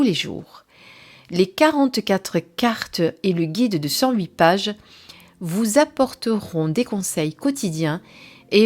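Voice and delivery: measured, clearly phrased promotional reading; presentation read-aloud. Acted. Reviewer reading the oracle deck's description to viewers, presentation read-aloud. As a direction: read out the blurb with deliberate pauses.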